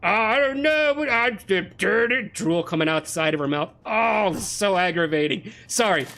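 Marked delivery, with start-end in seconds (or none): 0.0-2.3 dopey mock voice, higher and slower; a hammed-up airhead impression; mocking imitation. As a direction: ape her as a clueless speaker. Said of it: "And she's just like".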